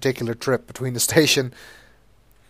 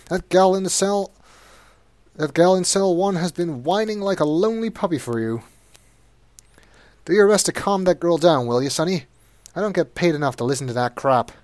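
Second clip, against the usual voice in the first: grumbling jailer voice, pitched up; fed-up jailer; 5 semitones higher, 4 dB louder than usual. Acted. Jailer asks Sonny to calm the girl, grumbling. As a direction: complain like an underpaid guard. Jailer's complaint read aloud.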